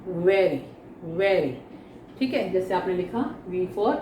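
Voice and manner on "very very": 'very' begun with air between the lips, lower pitch; V sound. Shown as a demonstration. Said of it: "होठों के बीच में से हवा निकालते हुए". ('very' का व होठों से हवा निकालते हुए)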